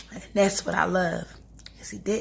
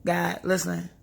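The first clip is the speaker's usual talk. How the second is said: casual prayer; 3 dB louder than usual. Shown as a demonstration. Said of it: "I talk just like this".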